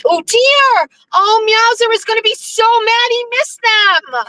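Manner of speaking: high, delighted coo. Real, not acted. Driver spotting deer, delighted they are there.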